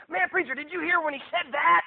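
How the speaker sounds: high, loud, excited question; gushing church member. Retold or imitated. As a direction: imitate a thrilled churchgoer marveling at a sermon. Gushing member, against pastor's own thought.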